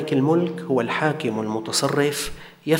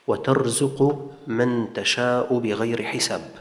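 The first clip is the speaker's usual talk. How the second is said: Quran recitation. Acted. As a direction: recite the verse with care, lengthening the long vowels. (ترتيل آيات قرآنية بتأنٍّ)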